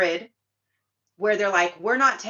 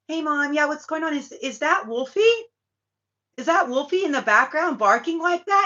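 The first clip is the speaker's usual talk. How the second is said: imitating the boy; 7 semitones higher, 5 dB louder than usual. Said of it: "The speaker's playing the boy's voice".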